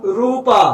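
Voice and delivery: रूपा with a pushed, long रू; forceful long u. Shown as a demonstration. Teacher showing the long u needs effort. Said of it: "रूपा में बोलने में रूप से दम लग रहा है".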